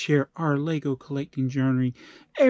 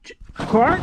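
high, stammered disbelieving question; stunned recognition; 10 semitones higher than usual. Acted. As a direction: stammer the name in mock shock. Father sees long-lost son.

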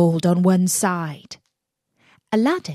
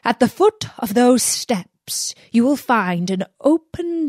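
a lightly voiced magician, louder and firm; commanding magician; 4 dB louder than usual. Magician instructs Aladdin at the cave, lightly voiced stern command.

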